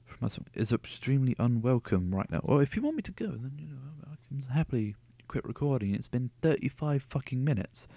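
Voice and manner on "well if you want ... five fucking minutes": sarcastic. Real, not acted. Reader argues with the book.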